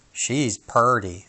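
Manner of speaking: slow drawl of a dwarf; folksy dwarf. Acted. Sneezy slowly admires the sleeping girl. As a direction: stretch it out admiringly.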